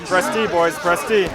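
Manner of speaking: put-on urging the boys on, not shouted; rallying call. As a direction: call it out like a game officer. Calls out to his troops.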